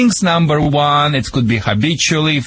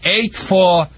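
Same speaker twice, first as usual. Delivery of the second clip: theatrical show opening. Acted. Dog trainer opening his radio show to troubled owners, theatrical pitch. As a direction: sell it like a mock-grave warning.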